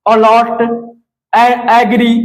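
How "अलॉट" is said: अलॉट opening on a short अ vowel; short A sound. Shown as a demonstration. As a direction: demonstrate अलॉट with initial अ sound. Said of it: "तो अ में हमारा".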